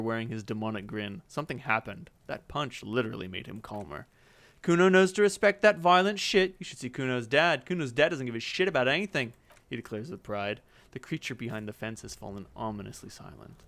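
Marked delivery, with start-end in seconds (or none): 4.6-9.3 lightly voiced boasting kid; a dazed kid bragging; bratty kid Kuno. Kuno boasts about his dad, lightly bratty.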